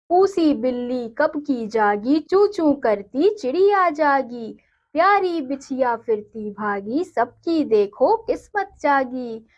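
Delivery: put-on slow, sing-song reading of a children's poem; poem recitation. Teacher reading a poem to her students, slow and sing-song. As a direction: recite it gently and slowly for the class.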